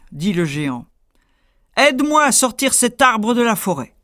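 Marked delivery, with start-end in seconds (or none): 1.8-3.9 louder, higher giant voice. Acted. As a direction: command it like a giant. Giant orders.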